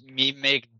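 slow, dim-witted ogre speech; lightly voiced brute, slow and simple; dim slow booming giant. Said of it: "The ogre says".

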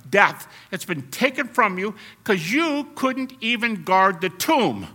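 high, loud mocking taunt; taunting death. Preacher voicing Paul mocking death, loud high taunt. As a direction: jeer at a beaten enemy. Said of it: "That's the way Paul's talking".

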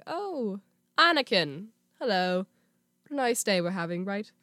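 lightly voiced, genial Jedi master; Obi-Wan. Jedi master greeting his apprentice, lightly impersonated. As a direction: greet him with a hint of refined master's voice. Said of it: "prefer the Obi-Wan voice".

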